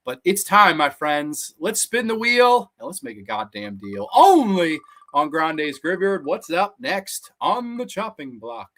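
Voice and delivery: slow, booming game show host. Acted. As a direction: announce the wheel spin like TV. Announces the spin-the-wheel segment.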